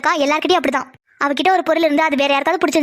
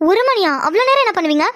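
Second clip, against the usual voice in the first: mildly amazed, pitch lifted; raised-pitch surprised question; 3 semitones higher than usual. Acted. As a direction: question it in light disbelief. Surprised at late bedtime.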